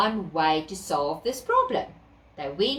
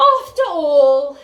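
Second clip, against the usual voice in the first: high, loud squawky bird voice; a cocky bird; cockatoo voice; 5 semitones higher, 9 dB louder than usual. Acted. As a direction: cockatoo speaking.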